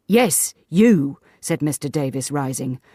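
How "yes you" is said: loud insistence. A narrator's reading. Davis insists loudly.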